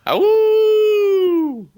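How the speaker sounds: long high wolf howl; hound dog howl. Pretend. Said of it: "close us out with their best old hound dog howl".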